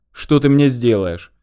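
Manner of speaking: plain reading voice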